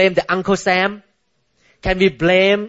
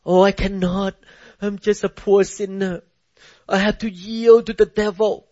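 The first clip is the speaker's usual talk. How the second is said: mock weak sinner. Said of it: "Many Christians say that".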